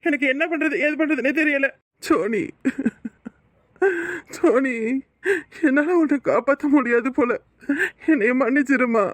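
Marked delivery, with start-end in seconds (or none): 2.1-9.1 sobbing out his wife's name; broken, tearful apology to a dying wife; grieving husband weeping, begging forgiveness; crying. Acted. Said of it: "என்னையா சின்ன குழந்தைகிட்ட அழற?".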